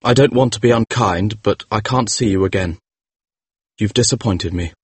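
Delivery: lightly voiced calm young man; calm, clear. A narrator's reading. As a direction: let her down coolly. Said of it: "in his calm, clear voice".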